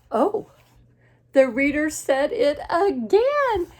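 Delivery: loud, high, slow exclamation; delighted astonishment, drawn out for a young audience; big storybook character outburst; Gerald. Acted. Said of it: "And then Gerald says".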